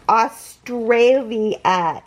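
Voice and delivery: AUSTRALIA slowly, syllable by syllable; Australia sounded out at half speed; drawn-out word. Real, not acted. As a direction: stretch out every part of Australia. Sounds out where parcel came from.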